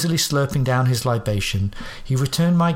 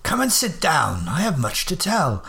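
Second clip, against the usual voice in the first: Holmes voice; 2 semitones higher than usual. Acted. Holmes reveals disguise.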